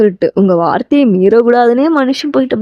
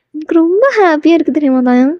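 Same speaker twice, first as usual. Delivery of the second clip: voiced heroine; 6 semitones higher, faster than usual. Heroine shares her happiness.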